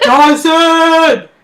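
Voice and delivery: half-laughing mock yell of the name; retold scream. Co-host retelling Mitch yelling for Dawson, laughing mock shout.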